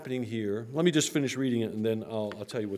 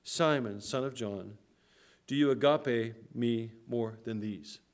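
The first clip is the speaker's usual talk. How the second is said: intimate and personal. Shown as a demonstration. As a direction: speak his name gently, like a close friend. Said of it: "a very personal, very intimate way in which he's addressing him".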